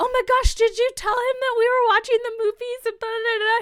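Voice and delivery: mock giddy gushing, fast, very high and very loud. Retelling a partner dispatcher's question about the actor: imitating an excitable coworker. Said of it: "she was very young and excitable".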